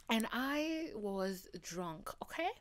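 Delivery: slow, playful African accent. Real, not acted. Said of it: "this African accent has spawned from".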